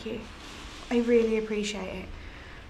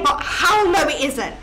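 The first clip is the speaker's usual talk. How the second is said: a bitter laugh breaking into crying; half laugh, half sob as it cracks; laughing through tears; 3 dB louder than usual. Acted. Murdered girl raging at the medium, laughing through tears.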